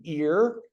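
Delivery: first syllable "ear" said slowly alone. Shown as a demonstration. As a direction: say "ear" as a separate drawn-out syllable. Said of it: "if you would repeat after me".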